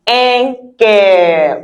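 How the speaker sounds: "cœur" said like the English word care; anglicized cœur. Shown as a demonstration. Teacher giving accepted easy version, "cœur" like care. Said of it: "like I care for you".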